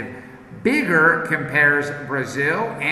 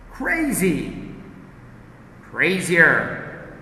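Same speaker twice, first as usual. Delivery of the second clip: repeat-after-me drill. Shown as a demonstration. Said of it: "I say, you repeat".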